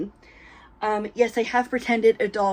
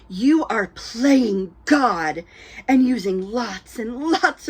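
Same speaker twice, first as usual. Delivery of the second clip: dramatic reading. Pretend. Vlogger mock-reading a scolding YouTube comment, hammed-up dramatic indignation. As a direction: read it like a mock sermon, lightly overdone. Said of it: "do a dramatic reading".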